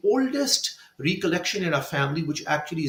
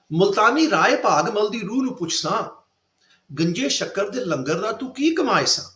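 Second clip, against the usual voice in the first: poem recital; 3 semitones higher, much faster than usual. Shown as a demonstration. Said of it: "I speak the original".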